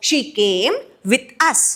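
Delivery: "She came with us." stretched word by word; slow, deliberate read-through; teacher repeats the example slowly. Shown as a demonstration.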